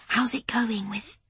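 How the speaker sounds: hushed, slow whisper. Acted. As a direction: whisper it so the men can't hear. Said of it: "Lauren whispered".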